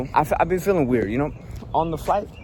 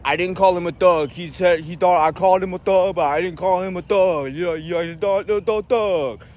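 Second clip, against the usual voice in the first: mocking agent imitation; 2 semitones higher than usual.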